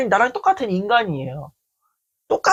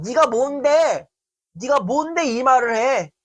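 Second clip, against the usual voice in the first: imitating a contemptuous friend, pitched up; mock scornful challenge; 4 semitones higher than usual. Retelling a friend's put-down, mock scornful. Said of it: "이런 얘기를 하는 거야".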